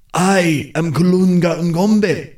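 high, slow, otherworldly announcement; eerie spirit voice. A narrator's reading. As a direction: reveal yourself as the lord of death. Trapped death lord names himself.

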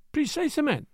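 French word said brightly, beaming; "Precisement" in a beaming French lilt. A narrator's reading. Detective to butler, a beaming French word. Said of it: "said Poirot, beaming".

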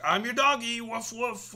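high-pitched doggy with barks; playful doggy voice. Acted. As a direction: play an eager little dog. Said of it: "If I were to say".

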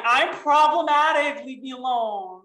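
high, laughing, drawn out; hammed-up high giggle; laughing mock defence. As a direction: play the guilty one through giggles.

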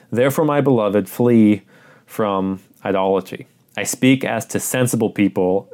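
measured, solemn reading of the passage; scripture reading. Acted. Pastor reading scripture to the congregation, solemn and measured.

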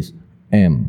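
is M said clearly for listening; careful teacher demo of M; model letter M. Shown as a demonstration. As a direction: say M the right way.

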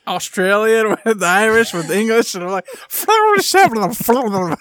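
slow laugh-filled rambling. Real, not acted. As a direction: let the laughter break up the words. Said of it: "wanna mix".

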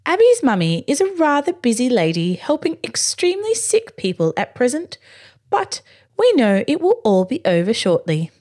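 a stately lord reassuring his bear; aristocratic voice. Acted. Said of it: "he continued".

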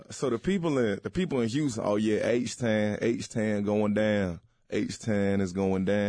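lightly done Texas accent, stretched vowels. Shown as a demonstration. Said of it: "Can you do something from Texas".

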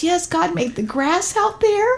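put-on drawn-out innocent kid agreeing; child voice. Son agrees God made the grass, slow high child voice.

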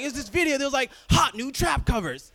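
high, loud mom explaining; imitating mom. Mom explains the video, high excited voice. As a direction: mimic mom eagerly explaining. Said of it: "She's like".

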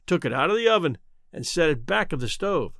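usual speaking voice

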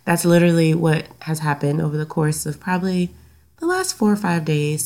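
blocked nose, stuffy voice. Real, not acted. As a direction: talk through a stuffy nose. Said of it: "if I sound a little stuffy".

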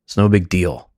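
exasperated sigh, then mild irritation; imitating a partner brushing it off; very annoyed wife. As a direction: sigh first, then impatient reassurance. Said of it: "And her very annoyed goes".

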